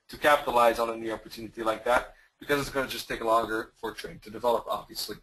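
losing voice, a bit hoarse. Real, not acted. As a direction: talk through a fading, hoarse voice. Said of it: "I'm losing my voice".

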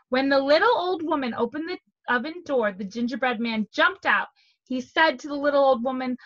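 animated read-aloud with emphatic key words; storytelling to children. A narrator's reading. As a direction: read a picture book aloud to young children.

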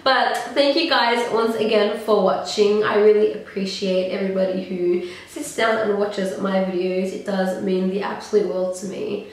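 stuffy, nasal voice; talking through a blocked nose. Real, not acted. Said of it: "I apologize for this nasally voice".

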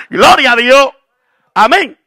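high, ringing shout of praise; exultant preacher's shout. Real, not acted. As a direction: belt it out to the congregation. Preacher exclaims praise to congregation.

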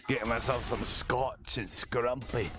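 rough attempt at a Scottish accent; bad Scottish accent. Player switching to demo man, clumsy Scottish accent. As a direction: have a poor go at sounding Scottish. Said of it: "I cannot do a good Scottish accent".

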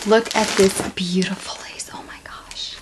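hushed admiring whisper. Real, not acted. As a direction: whisper as if not to disturb it. Admiring the lace.

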